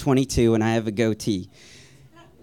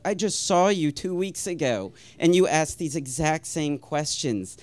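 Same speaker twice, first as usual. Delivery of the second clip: higher-pitched, mildly exasperated retort; 4 semitones higher than usual. Retold or imitated. Man asked the same questions by synagogue regulars, exasperated. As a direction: put some disbelief into the complaint.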